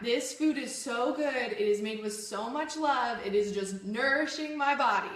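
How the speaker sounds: deliberate, convinced self-affirmation; with conviction. Shown as a demonstration. Telling herself the food will nourish her, with conviction. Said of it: "say it with conviction".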